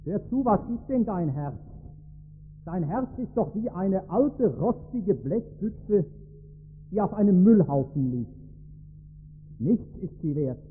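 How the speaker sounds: lightly voiced old pastor's grave admonition; understated stern counsel to a younger man; a touch of sober reproof; very serious. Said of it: "wird der alte Seelsorger sehr ernst und sagt".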